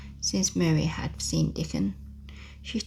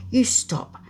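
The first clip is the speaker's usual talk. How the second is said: loud angry shout, pitched higher; 5 semitones higher, 6 dB louder than usual. A narrator's reading. Mary bursts into Colin's room, shouting loud and high. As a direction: shout him down to stop his screaming. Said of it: "ran into Colin's room and shouted".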